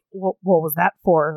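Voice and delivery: low, mock-gruff husband. Husband hides delight after a kiss, gruff. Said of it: "trying to keep his voice all gruff".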